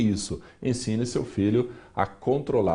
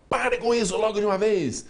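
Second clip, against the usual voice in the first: angry father snapping; 9 semitones higher than usual. Retold or imitated. Father losing patience with his child's tantrum, high angry scold. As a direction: lose your temper at the tantrum. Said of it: "o pai fala".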